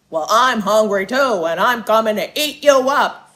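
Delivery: very loud, booming troll voice. Reading a story aloud, the troll answers the little goat: troll voice. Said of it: "And under the bridge lived an ugly green troll".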